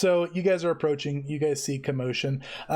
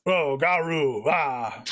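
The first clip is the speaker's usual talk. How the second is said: orc gibberish repeat; much slower than usual. Acted. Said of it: "Verbatim, both times".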